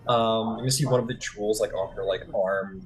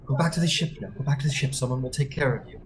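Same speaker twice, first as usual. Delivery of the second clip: raised, firm command; firm order; 4 semitones higher, faster than usual. Acted. Thalia ordering the man back to the ship. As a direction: send him back firmly. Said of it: "Thalia will just be like".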